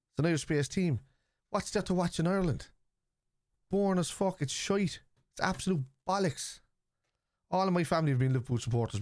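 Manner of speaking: high-pitched, exasperated argument; heated rebuttal. Real, not acted. Streamer arguing with a commenter about football in Ireland, heated rebuttal. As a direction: argue back indignantly, pitch up high.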